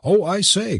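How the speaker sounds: high-pitched exclamation; crying out. A narrator's reading. Curate exclaiming to Missus Kent, crying out. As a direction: cry it out with a high lift. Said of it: "cried the curate".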